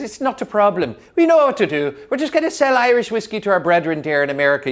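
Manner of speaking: upbeat can-do Irish bravado; confident Irish producers. Retold or imitated. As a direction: sell the plan with big optimism. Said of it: "But the Irish says".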